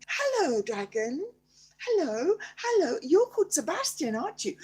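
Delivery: high, loud eager hello; excited greeting. Pretend. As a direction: call out to the dragon, thrilled.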